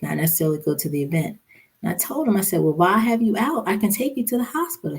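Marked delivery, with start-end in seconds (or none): 2.6-5.0 higher-pitched retold coaxing; wife's retold nudge; coaxing plea. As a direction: urge him along, voice lifted and quick. Urging her husband to go.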